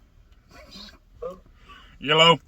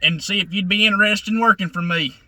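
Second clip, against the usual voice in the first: fake promoter. A prankster poses as promoter Mike Mason on a phone call to a wrestler, lightly voiced. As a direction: play the confident booker pitching a job. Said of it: "can I be, uh, Mike Mason".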